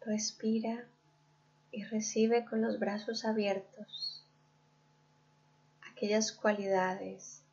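calm guided-visualization voice with long pauses; guided meditation. Real, not acted. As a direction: lead the listener gently inward, leaving room to breathe. (meditación guiada, pausada y serena)

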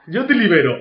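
femme fatale susurrante y lenta; voz seductora. Shown as a demonstration. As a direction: dilo como una seductora, melosa. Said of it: "hay que decirlo con voz seductor". (voz de mujer fatal seductora)

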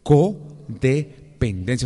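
codependencia dragged slowly with a rising end; slow drawn-out. Shown as a demonstration. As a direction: stretch out codependencia. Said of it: "Dígalo".

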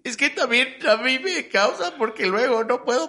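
a hint of tears, dragged out slowly; teary reply. Answering the roommate about the bill, lightly teary and slow. She cries over nothing.

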